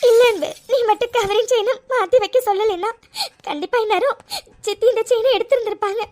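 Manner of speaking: tearful thanks with a wet laugh; crying. Acted. Insisting to her husband it was all him, while crying. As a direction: still weeping, insisting. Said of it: "please first அழுகிறது நிறுத்து".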